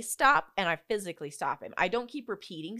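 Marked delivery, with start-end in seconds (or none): 0.0-0.5 firm command. Shown as a demonstration. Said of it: "I say".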